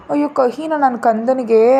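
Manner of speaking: put-on slow, tender cooing to a child; lovingly. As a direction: soothe the little one fondly. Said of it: "ಪ್ರೀತಿಯಿಂದ ಮಾತಾಡ್ಸಿದ್ಲು".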